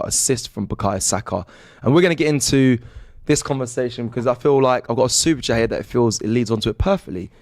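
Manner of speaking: upbeat stream host voice; presenter voice. Acted. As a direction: address the viewers brightly. Host addresses the audience.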